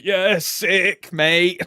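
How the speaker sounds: big drawn-out bro enthusiasm; hyped-up reply. Retold or imitated. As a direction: act out being stoked, loudly. Acted excited reply to friend's remark.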